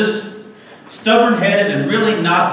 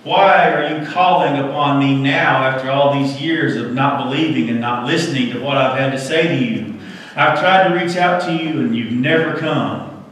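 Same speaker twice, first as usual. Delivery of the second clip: lightly voiced God; 2 semitones lower than usual. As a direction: speak down to the man as a mildly stern God. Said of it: "there was a voice from above".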